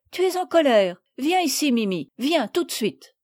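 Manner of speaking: mild cross command; scolding girl. Acted. Madeleine ordering Mimi back, mildly cross.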